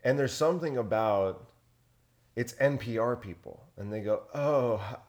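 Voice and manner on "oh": mock NPR listener. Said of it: "That's a good accent".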